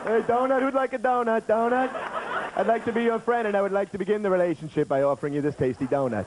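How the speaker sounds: lightly hammed-up creepy donut pitch; psycho donut pusher. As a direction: sell the donut like an overeager creep. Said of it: "psycho freak weirdo trying to give away donuts".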